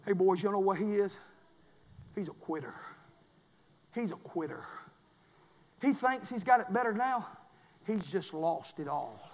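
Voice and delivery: very low, soft, spaced-out lines; grave, hushed verdict. Acted. Drill instructor telling boys about the quitter, hushed. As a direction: let each judgement fall quietly, with pauses.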